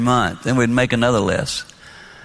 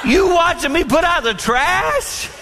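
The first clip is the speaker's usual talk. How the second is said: mock incredulous. Teasing wife's retort quoted.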